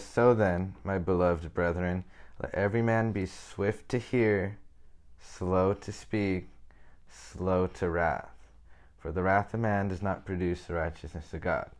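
slow, deliberate scripture reading with stretched key phrases. Acted. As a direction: read the verse slowly and solemnly. Reads Bible verse aloud.

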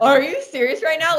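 high-pitched incredulous question; retold disbelief. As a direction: act out can't-believe-it astonishment. Disbelief at ticket offer.

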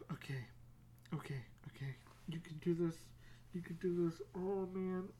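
acted anxious self-pep-talk, starting quiet; nervous psyching up. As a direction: steel yourself under your breath.

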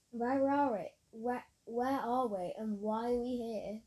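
alarmed cry, slowing as it repeats. A narrator's reading. Molly freaked out in a strange house, crying out. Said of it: "cried Molly".

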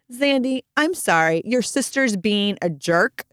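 put-on slow, pointed apology aimed at the other child; retold parent losing patience, emphatic; mock exasperated apology. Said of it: "Not handling it well".

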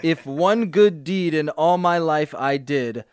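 dramatic reading. Acted. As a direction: read it out like an unrepentant villain. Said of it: "can I try one of the passages".

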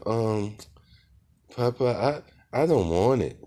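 put-on high, timid little-girl voice; little daughter voice. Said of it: "So she said".

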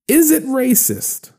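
IS IT RACIST pitched high and drawn out slowly; posed question. Real, not acted. Podcaster putting a pointed question to listeners, IS IT RACIST high and slow. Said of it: "Now, I ask you this question".

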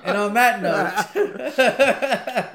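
very slow, loud, high, laughing; drawn-out sign-off. Pretend. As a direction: stretch every word out.

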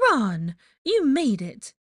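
loud, high, drawn-out welcome; motherly excited cry; delighted greeting. A narrator's reading. Molly greets her son warmly.

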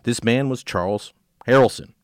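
measured true-crime read-aloud; story narration. A narrator's reading. Host reads a case to co-host, story narration.

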